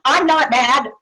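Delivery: acted touch of defensive anger; irritated denial. Acted angry denial in role-play.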